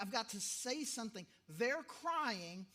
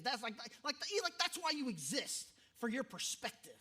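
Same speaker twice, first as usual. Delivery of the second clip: put-on angry old professor; 3 semitones higher, 4 dB louder than usual. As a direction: scold a room of seminary students. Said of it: "this dude, he's angry".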